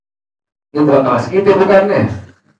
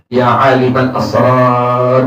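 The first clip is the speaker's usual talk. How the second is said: drawn-out, slow plea to God; slow pleading call; 2 semitones lower, slower than usual. Retold or imitated. Pious man calling on God, a slow earnest plea. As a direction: call on God slowly, from the heart. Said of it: "dengan kalimat tadi apa tadi".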